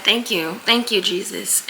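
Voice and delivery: soft grateful thank-you after a sigh; quiet thanks. Retold or imitated. Recalling lying in bed thanking Jesus, soft and grateful. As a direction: breathe out and thank him softly.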